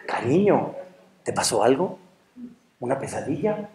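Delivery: soft, low, tender questioning; concerned wife. Acted. Wife asking husband about his nightmare, gently. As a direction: ask gently, careful not to startle.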